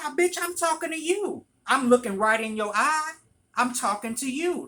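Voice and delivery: loud, high confrontational rant; going in on her. Retold or imitated. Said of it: "I went in on her".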